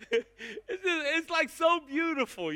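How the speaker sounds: a real choked-up laugh; laughing through tears. Real, not acted. Pastor recalling the wedding to his church, laughing tearfully.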